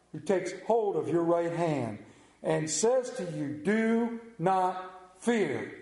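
emphatic scripture reading, stretching the key words. Acted. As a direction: build the promise to a slow, deliberate close. Reads scripture, building to climax.

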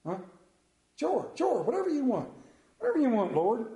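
high, quick agreeing; eager Peter. Acted. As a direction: brush it off eagerly.

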